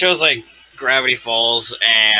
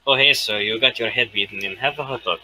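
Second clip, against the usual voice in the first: put-on poor stab at a New Yorker accent; hot-dog seller with a dubious New York accent; attempted New York accent. Offering a hot dog to a beaten customer, shaky New York accent. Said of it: "That was not a New Yorker accent".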